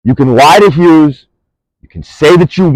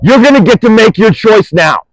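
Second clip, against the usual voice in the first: shouted ultimatum; real anger, raised voice; angry shout; 3 semitones higher than usual. Real, not acted. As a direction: bark the final warning. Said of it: "You've seen me mad".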